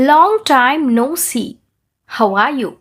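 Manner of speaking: very slow, each word drawn out; teacher models it slowly for repeating; slow shadowing model. Shown as a demonstration. Teacher says it slowly for students to shadow. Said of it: "నేను ఎలాగైతే చెప్తానో మీరు అలా అని చెప్పాలి".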